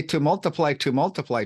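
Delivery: to multiply twice with falling stress; intensive repetition. Shown as a demonstration. Teacher illustrating the infinitive absolute, emphatic. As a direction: press both multiply words. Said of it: "that's very intensive".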